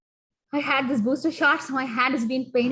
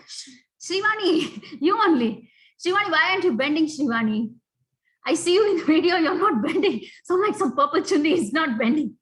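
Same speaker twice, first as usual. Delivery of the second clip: calling out a student; 5 dB louder than usual. Real, not acted. Teacher scolds a student.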